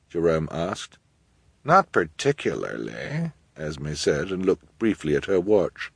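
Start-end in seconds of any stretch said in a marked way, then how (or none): 1.6-3.3 slow, cool, offhand; indifferent. Acted. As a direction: shrug it off coldly. Esme cold reply.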